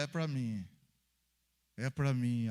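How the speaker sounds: low, firm owning of the message; low-pitched, sincere acceptance; taking it personally. Acted. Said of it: "aquele que puxa e fala".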